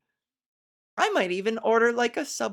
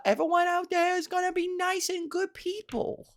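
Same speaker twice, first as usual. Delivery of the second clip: hammed-up naive little kid; child accent. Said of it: "that was my best child accent".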